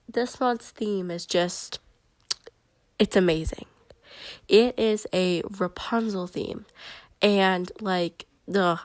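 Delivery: blocked nose from a cold; stuffy nose. Real, not acted. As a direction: talk through a stuffy head cold. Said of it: "I feel like I sound really stuffy".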